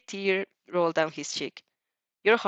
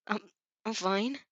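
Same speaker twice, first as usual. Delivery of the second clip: slurring; 7 dB quieter, slower than usual. A narrator's reading. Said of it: "you slur".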